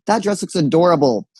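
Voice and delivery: put-on complimenting a girl's dress, in a mildly camp voice; gayest voice possible. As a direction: gush over the girl's dress. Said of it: "In my gayest voice possible".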